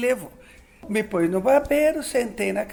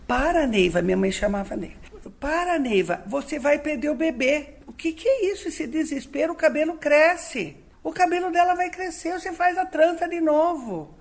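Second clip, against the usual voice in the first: higher, insistent grandmother telling her to stop; calm a panicking daughter firmly but kindly; grandma scolding mom; 5 semitones higher than usual. Retold or imitated. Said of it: "a minha nona falou pra ela assim". (avó repreendendo a filha, voz mais aguda)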